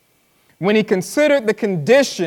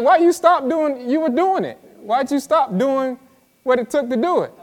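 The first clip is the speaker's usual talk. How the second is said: Jesus asking; 7 semitones higher than usual. Retold or imitated. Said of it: "And it's like".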